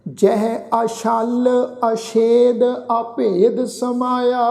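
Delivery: slow recitation, a slight pause after the first ਅ of ਅਛਲ, ਅਛੇਦ and ਅਭੇਦ; slight pause on the prefix. Shown as a demonstration. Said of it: "ਹਲਕਾ ਜਿਹਾ ਪੋਜ਼ ਦੇ ਕੇ ਐੜੇ ਅੱਖਰ ਉੱਪਰ".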